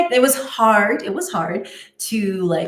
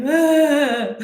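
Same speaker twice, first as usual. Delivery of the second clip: high, louder mock crying ah; tearful wail; 7 semitones higher, 6 dB louder than usual. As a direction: let a half-laughing sob out. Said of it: "I start crying 'cause I'm like".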